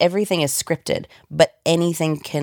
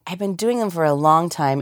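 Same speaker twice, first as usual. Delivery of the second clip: ordinary talk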